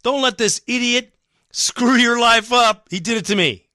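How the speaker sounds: high, loud mock warning to a friend; imitating Haas. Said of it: "Haas was on the phone right to Walter going".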